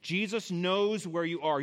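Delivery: knows stressed, slowed; slow emphasis. Shown as a demonstration. Preacher to congregation, stressing knows slowly. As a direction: lean on knows. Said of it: "The first thing I want you to notice".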